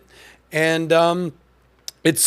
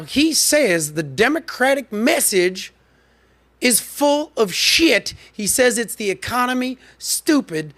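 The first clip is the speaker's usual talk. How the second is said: high, drawn-out Cajun impression; hammed-up Louisiana Cajun voice; mock Cajun accent; 6 semitones higher, slower than usual. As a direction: imitate a Cajun strategist, stretching the words. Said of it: "He talks like this".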